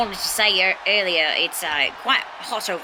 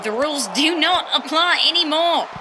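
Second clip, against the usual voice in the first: ominous voice; 8 semitones higher than usual. Pretend. Dramatic time-travel announcement.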